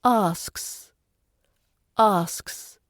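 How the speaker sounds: "asks" with sks glided together; light connected cluster. Shown as a demonstration. Teacher demonstrating for learners, connected sks in "asks". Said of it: "Say it like a quick glide".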